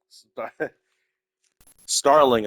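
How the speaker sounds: laughing while saying the name. Real, not acted. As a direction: laugh through the word.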